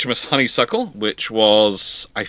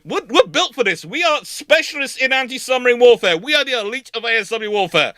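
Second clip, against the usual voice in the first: higher and indignant; proud Black Swans; 11 semitones higher than usual. Retold or imitated. Sloops insisting they are the elite, higher and indignant. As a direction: puff up with pride. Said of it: "Black Swans are going".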